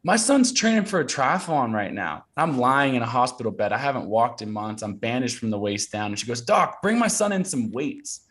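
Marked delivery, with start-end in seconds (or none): 0.0-2.2 high, proud mock announcement; retold yell. Mom yelling news to Thai doctor, calling out. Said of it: "she yells over to the doctor". 6.4-8.2 high, drawn-out mock call; retold yell. Mom yelling to doctor for weights, calling out. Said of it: "she yells over to the doctor".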